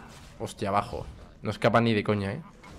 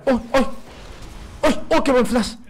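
excited cheer; 10 semitones higher than usual. Real, not acted. Gamer cheering a great flash, excited. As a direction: cheer the play on.

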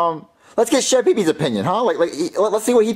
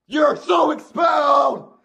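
angry scolding; 4 semitones higher, slower than usual. Acted. Teacher scolds student.

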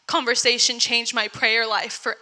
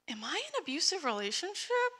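hushed worried question; 6 semitones higher, 12 dB quieter than usual. Retold or imitated. Asking herself in doubt.

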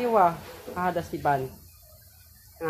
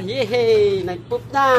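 loud, high celebration; elated, drawn-out hooray; jubilant cheer; 5 semitones higher, 11 dB louder, slower than usual. Real, not acted. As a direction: cheer loudly for the puppy. Cheering that puppy finally pooped.

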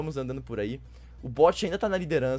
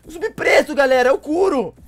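loud high amazed laughing; excited, laughing shouts; 11 semitones higher, 14 dB louder than usual. Real, not acted. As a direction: shout in disbelief at it. Spots strange black zombie.

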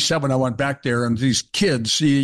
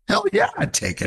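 emphatic yes. Real, not acted. Answering his own question emphatically.

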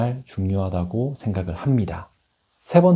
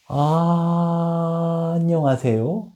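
much higher, strained hello; overly high greeting; 7 semitones higher, much slower than usual. Shown as a demonstration. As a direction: squeak it out nervously high. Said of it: "기회 날리는 거잖아요".

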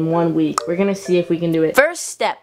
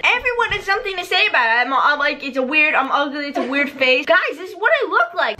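laughing; 7 semitones higher than usual. Retold or imitated. Quoting critics, laughing.

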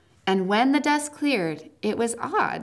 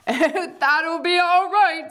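Aslan speaking; 8 semitones higher, 5 dB louder, slower than usual. A narrator's reading. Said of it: "said Aslan".

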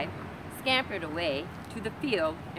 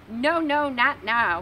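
much higher, louder panicky piglet; loud squeaky refusal; 6 semitones higher, 9 dB louder, slower than usual. Acted. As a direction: squeal the no at the wolf. Pig refuses the wolf.

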